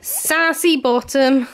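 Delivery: slow, loud, high "Sassy bottom"; drawn-out loud pet name. Real, not acted. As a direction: stretch "Sassy bottom" out fondly. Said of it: "repeated pet name, building".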